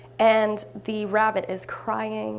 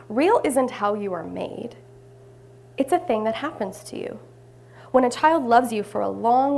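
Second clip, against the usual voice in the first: measured, expressive storybook reading; story reading; 3 dB louder than usual. A narrator's reading. Skin horse explains to the rabbit, measured storytelling.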